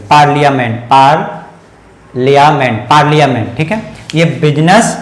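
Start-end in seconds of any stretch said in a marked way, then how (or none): 0.1-3.6 पार्लियामेंट as paar-lya-ment, whole then broken up; model pronunciation. Shown as a demonstration. Teacher repeats the word for students, model pronunciation. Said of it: "इसको ऐसे पढ़ेंगे". 4.4-5.0 बिजनेस as BIZ-nas, two syllables; no middle vowel in बिजनेस, rising end; correct pronunciation. Shown as a demonstration. Teacher contrasts right reading with wrong, correct pronunciation. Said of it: "बिजनेस नहीं".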